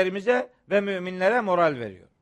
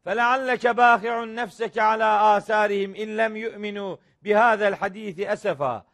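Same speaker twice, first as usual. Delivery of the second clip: Quran recitation; much faster than usual. Acted. Quranic verse recited in sermon.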